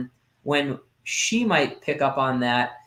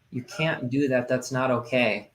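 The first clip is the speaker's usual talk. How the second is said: softer and slower, kindly firm; gentler rewording; 4 dB quieter than usual. Retold or imitated. Dad rephrases the rule to his daughter, softly. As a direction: say the same rule gently this time. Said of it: "I thought about it and I'm like".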